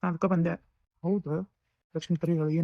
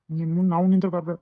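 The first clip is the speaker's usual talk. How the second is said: angry rebuke; 5 dB louder than usual. Acted. Brother furious at sister.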